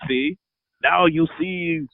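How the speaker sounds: slow, lightly voiced Russian accent. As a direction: drawl it in a put-on Russian accent. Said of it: "my Russian accent's done".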